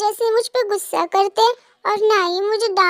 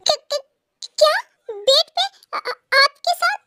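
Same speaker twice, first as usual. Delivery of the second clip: higher, stammering in shock; startled wife stammering; stunned stammer; 6 semitones higher, slower than usual. Acted. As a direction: trip over the words, flustered. Shocked at sharing the bed.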